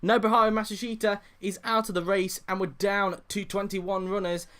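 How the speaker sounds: high, loud excited crash call; motorsport commentator. Real, not acted. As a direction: call the crash with rising urgency. Crash confirmed on live commentary.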